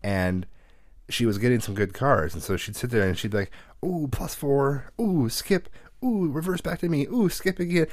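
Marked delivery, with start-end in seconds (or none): 3.8-7.9 high, sing-song gleeful taunt; gloating. Retold or imitated. Sister needling her brother during Uno, gloating. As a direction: imitate a girl smugly crowing over her cards.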